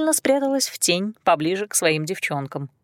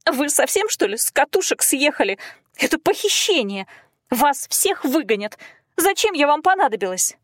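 panicked protest; 7 semitones higher than usual. Acted.

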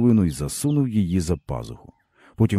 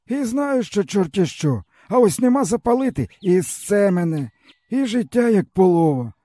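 higher, bitter village man's voice; weary peasant man; 13 semitones higher than usual. A narrator's reading. Stepan tells the boy his woes, bitterly. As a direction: speak as a broken old peasant.

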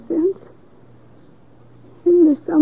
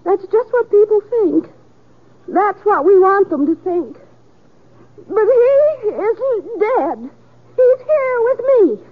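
frantic denial; 6 semitones higher than usual. Acted. Widow insists he lives.

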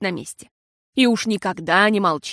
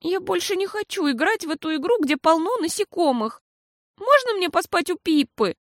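put-on high, childlike asking; pleading little girl; 9 semitones higher than usual. A narrator's reading. Girl asks mama to sleep at Pippa's, high plea. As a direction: beg like a small child.

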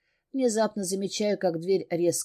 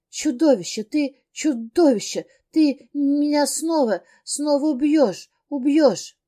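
hysterical scream; 7 semitones higher, 7 dB louder than usual. Acted. Terrified heroine screams at the monster he will kill her. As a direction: scream it at him in terror.

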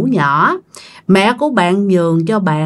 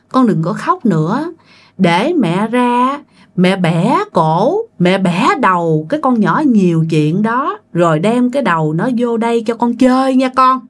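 creepy sweet threat; 3 semitones higher than usual. Retold or imitated. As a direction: coo a gruesome promise to the baby. Ghost mother threatens gruesomely.

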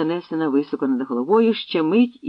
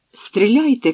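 higher, louder shout to fire; shouted order; 8 semitones higher, 6 dB louder, slower than usual. Acted. Leader orders the archers to shoot, loud shouted command. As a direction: yell the volley command. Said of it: "крикнув бачман".

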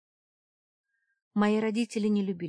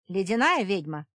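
doubting question, louder; incredulous; 2 semitones higher, 8 dB louder than usual. A narrator's reading. Witch repeats the name in disbelief, incredulous. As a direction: stress on "Ледяная", falling, disbelieving. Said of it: "недоверчиво переспросила незнакомка".

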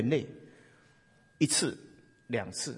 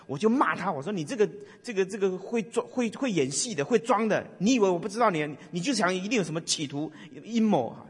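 a mock scolding tirade, pitched higher; scolding husband; 4 semitones higher than usual. Wife scolding her newly believing husband, mild mock scold. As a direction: retell the wife's nagging with a hint of scorn.

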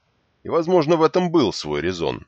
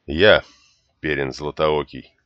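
reluctant; 3 semitones lower than usual. Acted. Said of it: "неохотно произнёс юноша".

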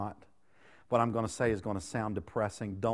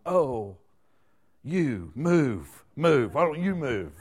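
loud, higher mock voice of God; God's mock reply; 3 semitones higher, 8 dB louder, much slower than usual. Imitating God answering the praying church, loud and higher. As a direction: mimic God calling back, louder. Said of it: "picture God in heaven in response going".

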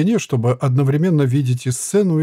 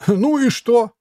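jester voice; 9 semitones higher, slower than usual. A narrator's reading. Jester puppet voice.

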